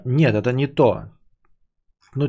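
ordinary talk

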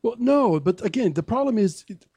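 ordinary delivery

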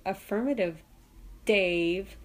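monotone machine creepiness; HAL. Acted. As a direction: answer in a level, patronizing machine voice. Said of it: "it has this monotone creepiness".

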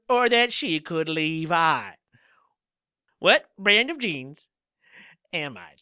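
poem recital, earnest and measured; reading own love poem. Acted. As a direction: read it like a heartfelt love poem. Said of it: "So I'll read you my poem".

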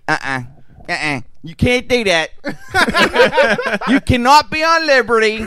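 high, laughing mock correction; know-it-all moviegoer. Guy in theater correcting his wife, high laughing mock voice. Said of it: "he's like".

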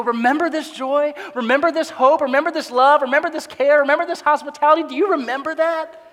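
fervent reminder. Retold or imitated. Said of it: "He's getting them to look back and go".

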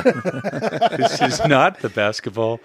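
mild Obi-Wan-style mind trick; mock Jedi mind trick. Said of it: "a Jedi mind thing".

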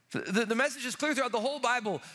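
normal talking voice

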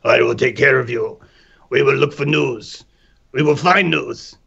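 soothing limbic voice. Retold or imitated. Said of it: "your limbic system's allowed to emerge and go".

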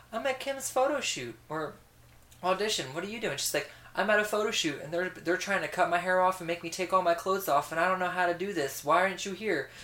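hint of a fussy mother on the phone; mom voice. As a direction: play the mom as she whines back. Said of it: "Voices were spot on".

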